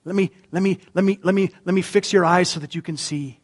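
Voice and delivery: soft, tender offer of help; gentle healer. Acted. Jesus offering to fix someone's eyes, gently. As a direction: coax quietly, in small repeated offers. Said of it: "the message just sounded a lot different".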